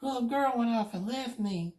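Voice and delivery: put-on child telling her godmother she was left alone; upset child. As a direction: tell it like a frightened four-year-old.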